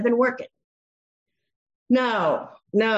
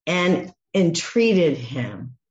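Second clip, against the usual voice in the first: tender; 2 semitones lower, slower than usual. Shown as a demonstration. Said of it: "spoke tenderly to him".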